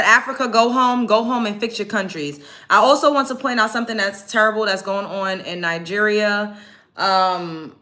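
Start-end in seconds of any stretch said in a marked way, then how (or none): 0.0-2.4 retold demand. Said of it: "She said".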